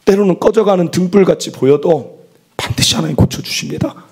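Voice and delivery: normal talking voice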